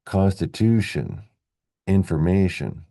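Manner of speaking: "Constitution, information" stressed on "tu" and "ma"; second-last syllable stress. Shown as a demonstration. Teacher recaps endings, "Constitution, information" stressed second last. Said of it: "stress the second last syllable".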